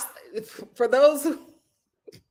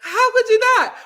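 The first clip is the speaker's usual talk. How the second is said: louder, higher "How could you not?"; sassy; 9 semitones higher, 7 dB louder than usual. Real, not acted. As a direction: toss it out proudly.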